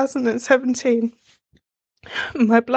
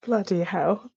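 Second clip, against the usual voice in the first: real, choked-up little laugh; holding back tears with a laugh; close to tears. Real, not acted. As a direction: caught off guard by tears. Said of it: "I didn't think I was gonna cry".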